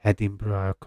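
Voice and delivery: Edinburgh said softly as "Hed-ing-bra"; own pronunciation. Shown as a demonstration. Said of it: "I say it like that".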